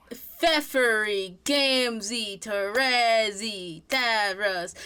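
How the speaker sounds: "Pfeffery, Gamzee, Terezi, Davros" said slowly, one at a time; demonstrated name pronunciations. Shown as a demonstration. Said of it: "That's how I've always said it".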